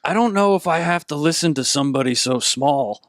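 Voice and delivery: lightly voiced scornful half-orc; a touch of haughty brute; dismissive orc. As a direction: brush off a tiny challenger.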